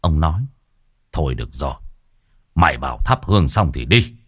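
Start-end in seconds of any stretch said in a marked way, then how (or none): 1.1-4.1 low, resigned concession; relenting sigh. Acted. Brother-in-law letting her light incense, relenting wearily. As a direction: give in reluctantly after a sigh. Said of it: "thở dài một tiếng. Ông nói".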